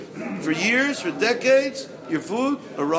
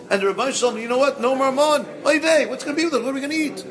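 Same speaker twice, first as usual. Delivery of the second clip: worried Jew voice; 7 semitones higher, 4 dB louder, faster than usual. Acted. Acted dialogue with Rabbi, exclaiming.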